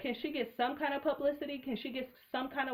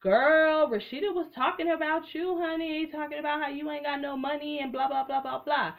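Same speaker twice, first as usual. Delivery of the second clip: gossip voice; 4 semitones higher than usual. Retold or imitated. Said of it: "called the next bitch and said".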